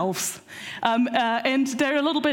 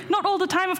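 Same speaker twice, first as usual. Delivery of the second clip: laughing; 6 semitones higher, faster than usual. Real, not acted.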